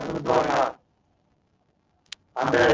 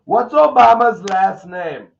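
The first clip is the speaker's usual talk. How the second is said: slow, higher, loud mock-dumb question; 7 semitones higher, 8 dB louder, slower than usual. Streamer reads a dumb tweet aloud in a mock-dumb voice. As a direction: ask it like a clueless fool.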